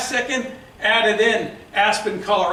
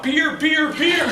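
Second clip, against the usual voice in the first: put-on Boston accent; 6 semitones higher, 4 dB louder, slower than usual. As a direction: bear said as beer in Boston accent. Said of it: "my Boston accent came out".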